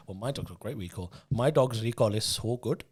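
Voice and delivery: hammed-up Asian parent boasting; Asian parent accent. Comic mocking two dog owners as bragging parents, put-on Asian accent. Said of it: "turned into those Asian parents".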